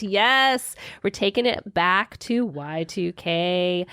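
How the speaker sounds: slow, drawn-out radio host; radio announcer voice. Acted. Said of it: "radio announcer voice just now".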